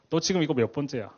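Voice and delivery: put-on a mother snapping at her child over and over; building from a sharp question to a loud angry repeat; angry scolding. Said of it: "막 이렇게 화를 내더라고요".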